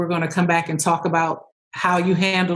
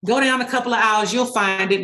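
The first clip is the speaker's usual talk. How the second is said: nonchalant employee; 2 semitones higher than usual. Acted. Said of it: "I was playing the nonchalant employee".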